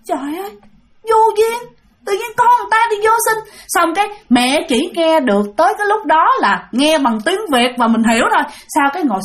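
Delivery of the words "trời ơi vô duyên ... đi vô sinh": high, fast scornful telling-off; scolding old man. Retold or imitated. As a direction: rebuke the ghost woman as shameless. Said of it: "cái ông đó nói". (giọng ông lùn mắng bà ma, khinh khỉnh)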